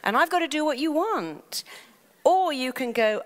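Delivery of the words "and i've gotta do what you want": higher, hurried mock warning from the mind; lightly voiced inner mind, higher; mind's voice. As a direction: play the mind as an eager servant raising alarm. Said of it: "Your mind goes".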